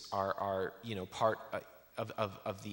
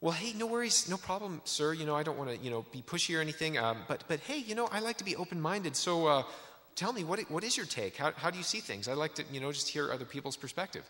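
much higher, overly agreeable friendly voice; eager friendly salesman; 6 semitones higher than usual. Retold or imitated. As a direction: schmooze him, all easy and open-minded. Friend smooth-talking a stranger.

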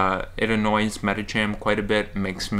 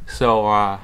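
whitening strip on teeth, slightly muffled. Real, not acted. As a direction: talk around a whitening strip. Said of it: "probably talking a little bit funny".

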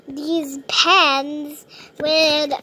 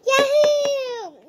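high gleeful yahoo; excited cheer; 8 semitones higher than usual. Real, not acted. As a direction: whoop with joy. Cheering for the big stuff.

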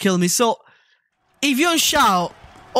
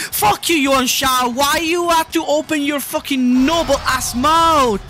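angry rant; 4 semitones higher than usual. Real, not acted. Gamer raging at ally Yuan Shao, angry shout. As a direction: blow up at the character.

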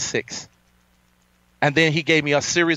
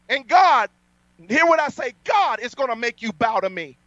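a hint of a king's decree, raised and commanding; 10 semitones higher than usual. Preacher decreeing to his critics, lightly kingly. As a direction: proclaim it as a ruler to his subjects. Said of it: "I just spoke that like a king".

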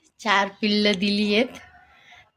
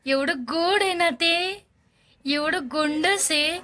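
cooing; 5 semitones higher, slower than usual. Real, not acted. Cooing over newborn kitten.

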